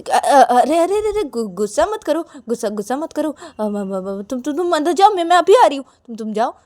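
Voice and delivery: high, stammering appeasement; flustered placating. A narrator's reading. Nervous bride begging angry partner not to be mad, flustered. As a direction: stutter anxiously to calm them down.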